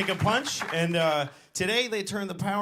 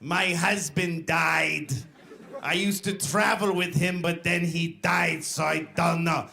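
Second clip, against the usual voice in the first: slow, halting imitation of an old foreign lady; plaintive mock old-lady voice; hammed-up helpless widow; mournful old lady. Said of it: "she's telling me all her stuff".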